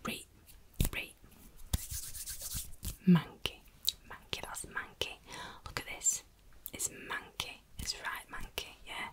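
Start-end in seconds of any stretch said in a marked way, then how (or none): none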